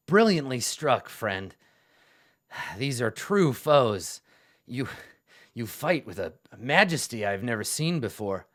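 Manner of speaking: hearty battlefield praise, lightly acted; admiring warrior. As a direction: hail a comrade with grand admiration. NPC hails a fellow fighter.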